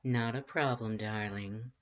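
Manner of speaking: purr. Acted. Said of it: "the voice purred".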